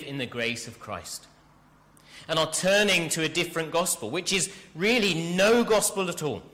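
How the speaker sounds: urgent, aghast reading, stressed hard; astonished rebuke. Acted. Preacher reads Paul's shocked letter to the congregation, astonished. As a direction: read it like you can't believe they're deserting. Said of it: "What's the tone?".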